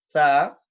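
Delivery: sa with the tongue between the teeth; interdental sound. Shown as a demonstration. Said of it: "es una D interdental".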